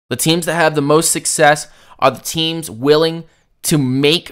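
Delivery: raw, strained throat; talking through a raw throat; sore throat. Real, not acted. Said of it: "I'm struggling to speak right now because my throat is raw".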